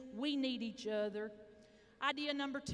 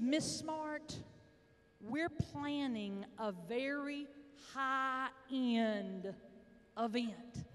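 sweet, sensitive caller; much slower than usual. Retold or imitated. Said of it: "she was so sweet and just really trying to be very sensitive".

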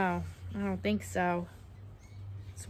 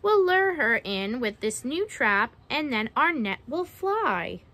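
measured picture-book storytelling; reading to children; 3 dB louder, slower than usual. Acted. Narrator reading a mermaid-trapping rhyme to children, storytelling. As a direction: read it out with a lilting rhyme.

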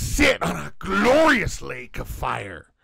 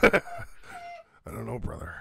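mock drawn-out voice; 3 semitones lower, 4 dB quieter, slower than usual. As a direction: stretch it out lazily. Drawn-out put-on voice.

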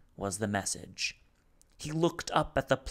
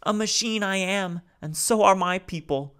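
high, louder, halting alien voice; speaking haltingly; 10 semitones higher, 7 dB louder than usual. Acted. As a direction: Salo piecing his words together. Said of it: "He was speaking haltingly".

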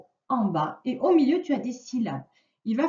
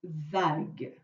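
slow dictation; 4 dB louder, much slower than usual. Shown as a demonstration.

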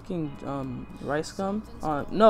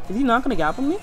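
excited; 6 semitones higher, 6 dB louder, faster than usual. Real, not acted. Tense moment in a PvP fight.

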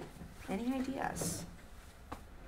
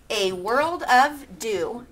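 slow haiku reading; wrong take; 5 dB louder, slower than usual. Shown as a demonstration. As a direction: reads it out slowly, counting. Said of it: "Wait, I didn't do that right".

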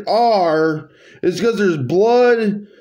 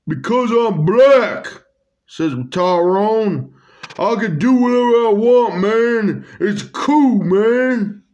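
lightly put-on cool-guy voice, a bit higher; a hint of a laid-back dude voice; Tyrone's voice; 3 semitones higher than usual. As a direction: play a swaggering bunny inviting a friend. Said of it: "Tyrone's voice".

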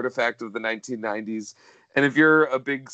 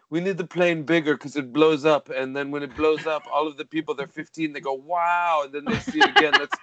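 lightly voiced nondescript European accent; Renny Harlin. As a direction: do a rough impression in a vague European accent. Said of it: "I can see Renny Harlin just being like".

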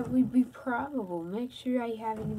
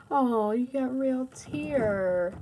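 cooing; 3 semitones higher, slower than usual. Real, not acted. Dad comforting pretend-sick child.

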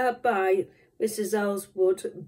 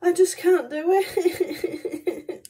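high whiny wail; 9 semitones higher than usual. Real, not acted. Can't open jar, wailing.

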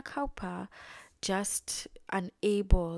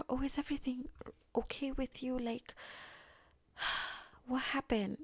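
softly acted concern, pitched higher; gentle concern; 5 semitones higher, 5 dB quieter than usual. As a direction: check on her gently, with a sigh. Gentleman checks on upset woman.

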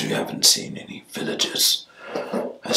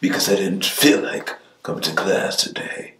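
sassy student. Shown as a demonstration. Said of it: "Like the wicked teacher".

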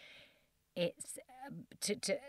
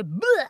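messy blurt; 7 semitones higher, 12 dB louder than usual. Shown as a demonstration. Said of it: "you can go".

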